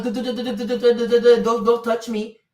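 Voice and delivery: mock sign-language babble. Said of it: "we should have been like".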